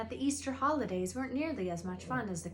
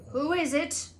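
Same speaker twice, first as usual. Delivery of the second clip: calling out; 7 semitones higher, 7 dB louder than usual. A narrator's reading. Hagrid calling through door.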